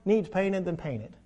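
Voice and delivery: mild imitation of a preacher scolding ladies; retold old preacher. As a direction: echo the old preacher's folksy advice. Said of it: "and he said".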